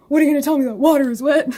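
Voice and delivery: sarcastic what-are-you-gonna-tell-me. Real, not acted. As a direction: scoff at the obvious news. Sarcastic mock question.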